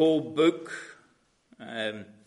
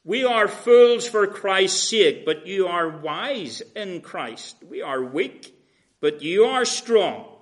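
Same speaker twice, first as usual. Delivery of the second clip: slow, ironic contrast of fools and wise; sarcastic; 3 semitones higher, 5 dB louder, slower than usual. Retold or imitated. Paul contrasting apostles with Corinthians, slow sarcasm. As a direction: lean into the irony, slowly. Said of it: "how sarcastic he gets in verse ten".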